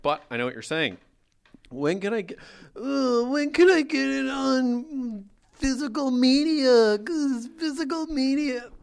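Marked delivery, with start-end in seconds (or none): 1.7-8.7 whining caricature. Acted. Host mocking complainers who want physical media, whining. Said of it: "Just like people who are whining".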